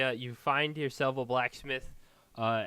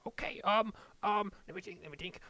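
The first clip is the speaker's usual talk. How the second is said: high dwarf voice, mulling it over; hesitant dwarven smith; 10 semitones higher than usual. Acted. Dwarf smith considering a dagger trade, high and hesitant. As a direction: stall while doing the sums.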